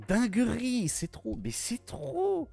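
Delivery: high squeal, stretched at the end; overwhelmed excitement. Real, not acted. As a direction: gush in a high, overcome voice. Fan overcome with enthusiasm.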